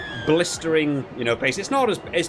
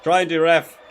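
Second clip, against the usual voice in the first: frustrated call; 5 semitones higher, 8 dB louder than usual. Real, not acted. Frustrated at game, calls ref.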